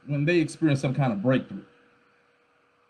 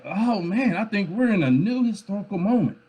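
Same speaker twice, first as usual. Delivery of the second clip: higher-pitched imitation of excited people; mock awe, pitched up; worked up; 5 semitones higher than usual. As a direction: mimic people getting carried away by a big moment. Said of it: "getting all worked up like".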